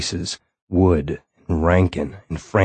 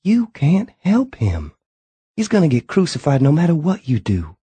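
imploring; 9 semitones higher than usual. A narrator's reading. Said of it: "imploring now".

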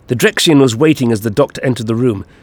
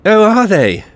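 high, loud, gleeful taunt; giggly villain; 10 semitones higher, 5 dB louder, slower than usual. A narrator's reading. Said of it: "Finfaloflix giggled".

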